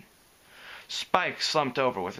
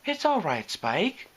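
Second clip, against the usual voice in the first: consoling; 6 semitones higher, slower than usual. A narrator's reading.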